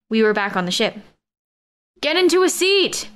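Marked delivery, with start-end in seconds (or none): 2.0-3.1 shout. Acted. Winston shouting orders as the ship shakes. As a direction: yell it over the rumbling. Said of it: "Winston shouted".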